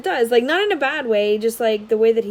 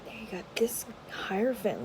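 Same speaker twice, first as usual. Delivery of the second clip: whisper; 11 dB quieter than usual. Real, not acted. Browsing cards, hushed.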